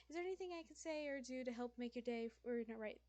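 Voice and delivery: lightly done customer service voice; a touch of polite shop clerk. Pretend. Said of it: "have my, uh, customer service voice".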